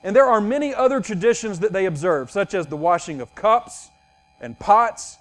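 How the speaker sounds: measured, solemn Bible reading; scripture reading. Acted. Pastor reads Mark seven aloud to his congregation, solemnly. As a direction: read the passage with weight and care.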